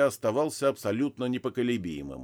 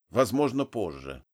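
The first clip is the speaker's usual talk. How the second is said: dry. Acted. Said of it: "сухо произнёс я".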